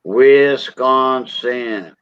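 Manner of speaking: slow, stretched-out Wisconsin vowels; heavy Wisconsin accent. Retold or imitated. Teasing a colleague over his accent, exaggerated slow Wisconsin accent. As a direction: imitate a thick Wisconsin accent, drawing out every syllable. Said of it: "has a heavy Wisconsin accent".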